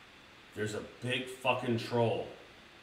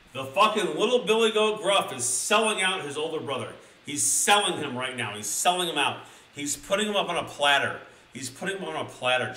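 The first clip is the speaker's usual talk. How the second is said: outraged hype; 3 semitones higher, 5 dB louder than usual. Real, not acted. Outraged commentary to chat.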